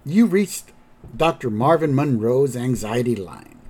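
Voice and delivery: lightly imitated phone menu, stretching each "now"; recorded hotline greeting. Recorded anxiety line greeting Grandpa, singsong menu voice. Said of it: "we see Grandpa on the phone".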